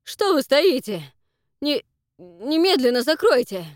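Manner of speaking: loud, high, stammering; a loud, stumbling, scared order; frantic demand. Acted. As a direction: urge them in panic. Frank frantic about the door.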